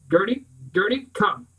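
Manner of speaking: frantic shout for Gertie; panicked shout. Acted. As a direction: shout for the missing dog. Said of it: "And I shout".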